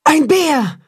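high startled cry of alarm; frightened cry. Acted. Mother wolf spots a bear, frightened high cry. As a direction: shriek out the warning. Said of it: "ruft die Wolfsmutter erschrocken".

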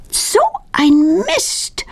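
high, very slow whispered curse. A narrator's reading. Claudia, disappointed by the bees, whispers her curse slowly. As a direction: hiss it out under her breath. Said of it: "flüstert Claudia".

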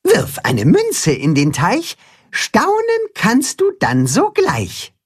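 slow, high singsong rhyme; revealing. A narrator's reading. Katzenhuhn reveals the pond sign's rhyme, slow reciting. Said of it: "verrät das Katzenhuhn".

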